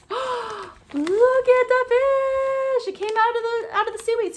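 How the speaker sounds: big wonder at the reveal; excited. Acted. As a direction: gasp then high, loud, very drawn-out delight. Fish revealed to children.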